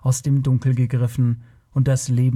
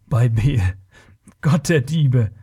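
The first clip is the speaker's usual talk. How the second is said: hissed oath; lightly hissed exclamation. A narrator's reading. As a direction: hiss an oath in astonishment. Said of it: "zischte Taurus".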